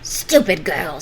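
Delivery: loud witch snap; snapping. Acted. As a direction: snap it with contempt. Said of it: "snapped the witch".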